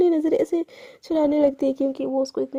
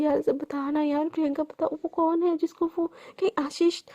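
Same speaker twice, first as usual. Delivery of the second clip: sad pleading; 4 dB quieter than usual. Retold or imitated. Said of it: "अब एकदम sad हो चुकी होती है".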